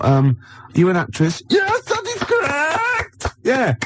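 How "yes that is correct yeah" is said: high, slow, hammed-up German accent; Nazi accent. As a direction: overdo a German movie villain accent. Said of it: "you're doing the, uh, Nazi accent very well".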